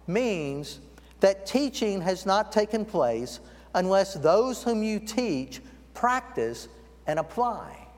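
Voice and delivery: slow, weighty, every word placed; slow deliberate definition. Shown as a demonstration. Pastor lays down the definition for the congregation, slow and deliberate. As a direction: spell out "teaching has not taken place" slowly so it sinks in. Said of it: "the very textbook example of the word lamad".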